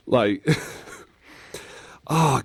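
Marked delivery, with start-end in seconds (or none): none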